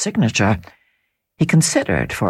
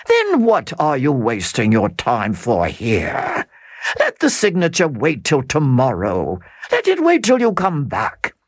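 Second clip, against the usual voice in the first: Count advising. Acted. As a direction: talk him down patiently.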